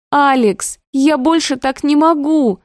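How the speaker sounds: high, tearful outburst; кричит сквозь слёзы; tearful cry. A narrator's reading. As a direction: cry it out near tears. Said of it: "кричу со слезами на глазах".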